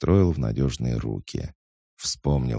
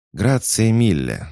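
proud, raised voice; loud and dignified; 9 semitones higher, 7 dB louder than usual. A narrator's reading. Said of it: "сказала громко и с достоинством".

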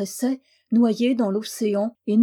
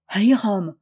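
mildly projected incantation; understated booming call, falling at the end; great ringing voice; 4 dB louder than usual. A narrator's reading. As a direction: let the magic name ring out into silence. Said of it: "une grande voix sonna dans le silence".

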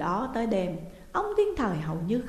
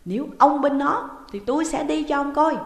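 louder, higher, shrill ultimatum; shrieking threat; 7 semitones higher, 8 dB louder than usual. A narrator's reading. Woman shrieking at her husband to take her side. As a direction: scream it at him, furious. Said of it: "bà tru tréo lên".

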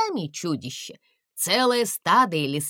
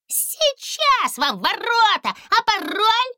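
squeaky little man; 14 semitones higher, 5 dB louder, slower than usual. A narrator's reading. Писклявый человечек у ворот.

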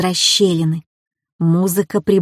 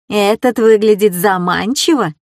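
squeaky mimicking of her line; mock her in a squeaky voice; 3 dB louder than usual. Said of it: "передразнил он меня писклявым голосом". (передразнивая писклявым голосом)

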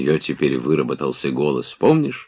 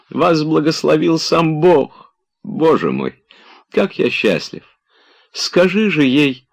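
higher, slow, held-back joy; barely holding in his delight; restrained rapture; 13 semitones higher, 4 dB louder than usual. A narrator's reading. Oblomov blesses his friend, barely containing his rapture. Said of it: "сдержав восторг".

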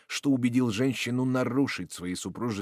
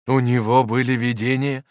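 anxious question; 3 semitones higher, 9 dB louder than usual. Acted. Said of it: "страшной тревогой спросил Горди".

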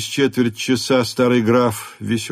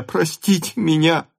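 higher, tearful "простите меня"; a pleading cry for forgiveness; sobbing; 6 semitones higher than usual. A narrator's reading. Son calls after his father, sobbing. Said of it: "рыдая".

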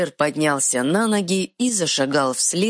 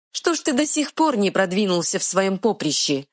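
sarcastic jab; 6 semitones higher than usual. Acted. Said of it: "съязвила фея".

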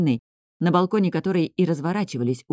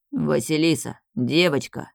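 lightly lowered, coaxing big man; bassy call. Acted. Big man calling the girl over, lightly bassy. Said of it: "пробасил большой".

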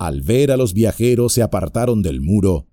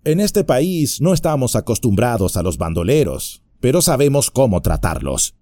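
lightly voiced Merry, higher and dry; mock innocent hobbit reply; a hint of sly hobbit; cheeky hobbit; 4 semitones higher than usual. Merry warns the bandits.

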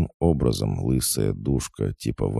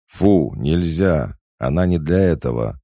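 scolding command; 6 semitones higher, 5 dB louder than usual. A narrator's reading. Man orders brother off the girl, scolding loudly. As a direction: scold as if correcting a naughty dog.

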